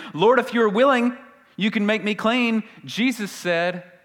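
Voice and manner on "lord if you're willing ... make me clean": pleading leper. Acted. Leper begging Jesus.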